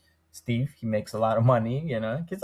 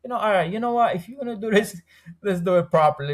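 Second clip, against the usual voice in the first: raised-voice wife giving in, a touch louder; imitating his wife; 8 semitones higher, 4 dB louder, faster than usual. Retelling how his wife agreed to the plan, higher and a bit louder. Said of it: "She, she said".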